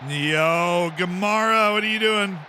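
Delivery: light mock gangster threat; mobster voice. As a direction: lean into a friendly mobster menace. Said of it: "Why do I sound like a mobster?".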